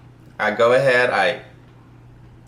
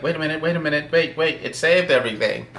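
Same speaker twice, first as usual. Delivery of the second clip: frantic; 6 semitones higher, faster than usual. Retold or imitated. Frantically rechecking his code.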